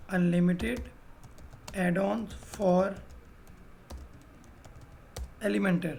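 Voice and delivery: each word of the name said very slowly and softly, as if spelling; slow dictation. Shown as a demonstration. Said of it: "कुछ लोग इसको Elementor भी बोलते हैं".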